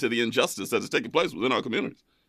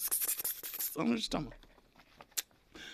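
whisper; 2 semitones higher, 18 dB quieter, slower than usual. Real, not acted. Denial repeated under breath.

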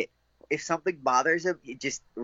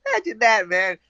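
amused disbelief; 7 semitones higher than usual. Real, not acted.

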